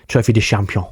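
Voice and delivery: attempted French accent; lightly put-on French pronunciation. Shown as a demonstration. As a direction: make an effort at a French accent. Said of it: "Let's make an effort".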